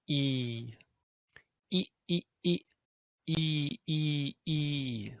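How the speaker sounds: e short, e long; vowel pair short and long; short then long ee. Shown as a demonstration. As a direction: clip one e, stretch the other. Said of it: "this one is e".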